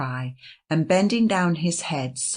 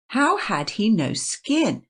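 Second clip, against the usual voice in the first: put-on puzzled child; 7 semitones higher, 3 dB louder than usual.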